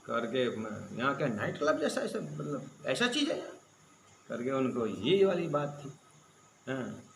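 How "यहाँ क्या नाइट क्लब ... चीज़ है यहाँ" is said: retold disbelief with a rising finish; astonished question. Translating the Pope's surprised reply, astonished question. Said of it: "आश्चर्य सूचक था".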